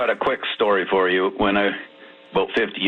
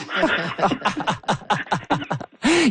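a high burst of laughter after the punchline; 12 semitones higher than usual. Real, not acted. Caller laughing hard at his own schedule joke.

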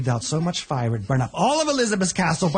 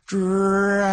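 louder call of the name; a little louder; 3 semitones higher than usual. Acted. Elizabeth calling the dragon a bit louder. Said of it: "Says a little louder".

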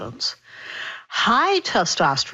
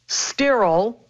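sterile set apart and stressed, pitch rising. Real, not acted. Doctor advising on saline nose sprays, stressing sterile. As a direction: put firm emphasis on the word sterile. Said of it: "emphasis on sterile".

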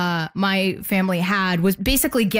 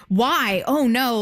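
mildly mock-horrified, a little higher; gawking shock; 4 semitones higher, slower than usual. Imitating strangers who see her hands, mildly aghast. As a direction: imitate a stranger's pitying gasp, put into words. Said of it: "like, pointing and gasping, but it's just in words".

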